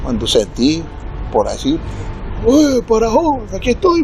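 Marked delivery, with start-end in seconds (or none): 2.5-4.0 higher, calling from a distance; mock call from the bushes, retold; hailing a friend from afar, lightly voiced. Comrade answers from the woods.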